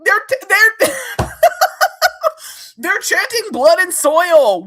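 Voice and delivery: high and loud, laughing in disbelief; outraged disbelief. Real, not acted. Telling viewers about the chanting, loud, high disbelief. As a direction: burst out, then drag "Blood and soil" slowly.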